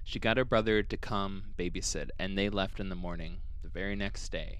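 calm, even storytelling read; podcast storyteller reading the case; story narration. A narrator's reading. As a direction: narrate the eerie account steadily.

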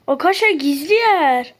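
real surprised excitement; excited discovery. Real, not acted. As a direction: tell friends about the hidden spot eagerly. Finds a secret room.

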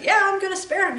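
voicing God granting mercy; lightly voiced God agreeing; God's voice. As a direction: speak as God, decided. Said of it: "And God said".

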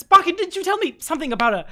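a hint of an eager little creature; lightly voiced NPC.

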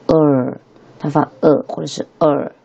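呃 as a curled-tongue "er"; drawn-out r-coloured 呃; retroflex r. Shown as a demonstration. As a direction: curl the tongue back on 呃. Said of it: "卷舌音".

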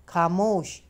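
a restrained, narrated roar; roared command. A narrator's reading. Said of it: "Vikas दहाड़ा".

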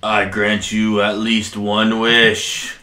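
slow, booming dragon awakened from sleep; sleeping ancient god. Acted. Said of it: "big ol' massive dragon appears".

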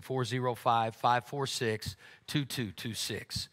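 the number spelled out slowly, digit by digit; slow dictation. Shown as a demonstration. Pastor gives the congregation the text number, slow and careful. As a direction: dictate each digit slowly so they can write it down. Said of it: "reads giving text number to congregation".

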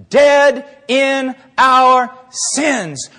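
DEAD, IN, OUR, SINS each stretched out slowly; slow, separated stress on every word of "dead in our sins"; emphatic word by word. Real, not acted. Drives home the exact phrase.

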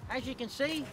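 loud eshay lad voice, Aussie; brash eshay Prime Minister; aussie eshay slang. Acted. Comedian plays eshay prime minister.

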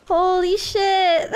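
slow, choked-up holy shit; overwhelmed, close to tears; teary disbelief; real tearful. Real, not acted. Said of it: "you guys are making me cry".

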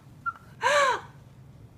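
high, sharp gasp; a sudden high intake of breath; surprised gasp. Real, not acted. Discovering more gifts.

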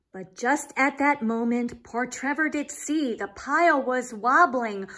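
lively, sing-song storybook reading; reading to children. Acted. Reading a rhyming picture book to young listeners, lively storyteller. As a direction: read it like a bedtime story for kids.

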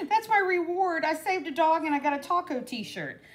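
playful delight. Retold or imitated. Telling viewers about the taco t-shirt reward, playfully delighted. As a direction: crow about the prize with a grin. Joking about husband's gift.

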